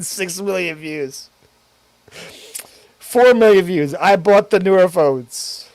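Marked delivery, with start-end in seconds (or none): 3.0-5.7 loud, punchy title read; announcing a title. Shown as a demonstration. Streamer pitching mock video titles, loud and punchy. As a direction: sell it like a hype headline. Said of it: "trying to think of a title".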